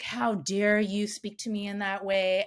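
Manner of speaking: mom indignant. Retold or imitated. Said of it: "And my mom's like".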